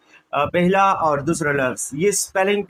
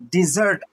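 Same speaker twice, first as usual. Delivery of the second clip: डेजर्ट with the weight on its second syllable; teacher's demo of डेजर्ट, stressed at the end. Shown as a demonstration. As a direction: land on the last syllable of डेजर्ट. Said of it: "दूसरे को".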